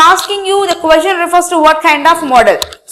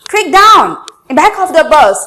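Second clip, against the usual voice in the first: exclamation. Shown as a demonstration. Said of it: "Ended with a exclamation mark".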